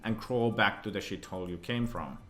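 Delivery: hammed-up gang boss threat; bad acting. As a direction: read a tough gang boss line, amateurishly. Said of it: "Sorry for my bad acting".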